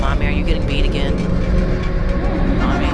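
put-on shouting little kid; loud toddler voice. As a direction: yell it like a bratty toddler.

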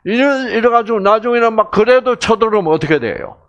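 ordinary talk

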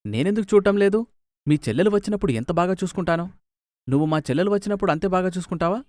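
angry retort. Acted. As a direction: snap back at your wife quickly. Husband quarrels with wife. (కోపంగా వేగంగా ఎదురు ప్రశ్న)

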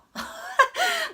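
high burst of bashful laughter; embarrassed laugh. Real, not acted. Vlogger laughing at her own bragging, high burst. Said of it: "자랑인가요?".

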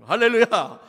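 a big ringing hallelujah, dropping at the end; loud, falling hallelujah to rouse the church. Real, not acted. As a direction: call it out to the congregation. Preacher calls out hallelujah.

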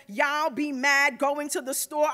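mocking mom quote. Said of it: "mommy mocks me and says".

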